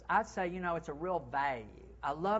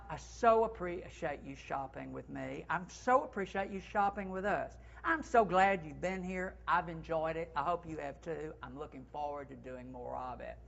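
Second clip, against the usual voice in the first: grateful farewell. Shown as a demonstration. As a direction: thank the shopper warmly. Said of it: "What about".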